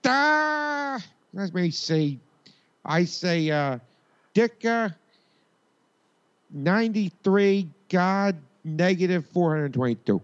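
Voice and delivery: very high put-on voice, drawn out; Frank. Superfan giving his absurd score, high put-on voice. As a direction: pitch it way up for a comic superfan. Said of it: "Frank, what do you think".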